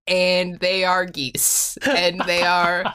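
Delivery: slow, solemn poem reading; slow poem recital. Pretend. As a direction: recite it slowly like a grand poem. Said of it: "Take us away".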